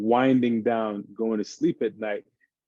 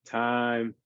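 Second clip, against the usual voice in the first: calming. Shown as a demonstration. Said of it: "calm our bodies down".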